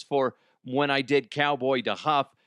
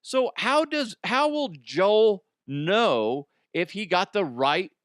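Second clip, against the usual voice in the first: mock host voice; 6 semitones higher than usual. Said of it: "he goes".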